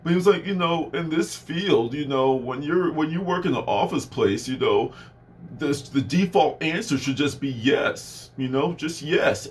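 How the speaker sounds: a hint of a prissy manager talking down; mild impression of a snooty office boss; snobby manager voice. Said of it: "he had this little snobby voice".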